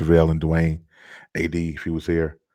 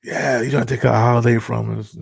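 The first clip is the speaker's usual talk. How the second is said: mock indignant friend; 4 semitones higher than usual. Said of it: "He was like".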